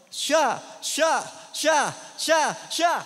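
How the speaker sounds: loud, excited naming; eager pointing. Retold or imitated. Girl eagerly pointing out each youth who made her cry. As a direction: point out each one quickly.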